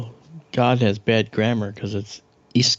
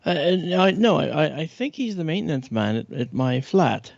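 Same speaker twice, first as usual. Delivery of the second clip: lightly voiced British man, Melvin; hesitant British gent stammering; British accent; 2 semitones higher than usual. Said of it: "my name is Melvin, and, uh, I'm from Britain".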